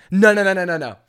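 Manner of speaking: entitled passenger demanding the CEO; indignant threat. Retold or imitated. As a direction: threaten like a spoiled customer. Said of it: "And she goes".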